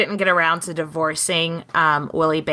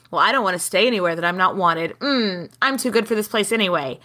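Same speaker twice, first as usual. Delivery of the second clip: haughty pretense; faster than usual. Retold or imitated. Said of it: "she's been acting like".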